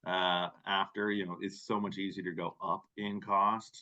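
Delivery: dry, understated sarcasm; sarcastic. Real, not acted. Presenter to colleagues on how easily costs go up, sarcastic. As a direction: say it as if stating the obvious, lightly sarcastic. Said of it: "you can sense the sarcasm there".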